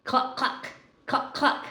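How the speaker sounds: breathy high hen clucking; whispered clucks. Acted. Grandma clucks in a whisper for the chicken page.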